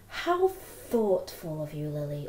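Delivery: slow, pointed and snide; slow sarcastic put-down; not a nice way. Shown as a demonstration. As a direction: drag it out to needle her. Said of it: "not a nice way".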